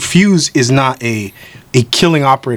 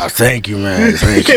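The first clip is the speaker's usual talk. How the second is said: Arthur Morgan. Acted. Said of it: "How would it sound like if Arthur Morgan".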